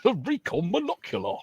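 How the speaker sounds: Recon said REE-kon in a high, hammed-up American accent; mock American accent. Shown as a demonstration. Mocking the friend's Recon in a high American accent. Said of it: "an American accent".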